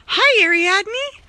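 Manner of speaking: high, slow and loud coo to the cat; cooing at the cat across the garden; high cat-greeting voice. Real, not acted. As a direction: sing out her name slowly.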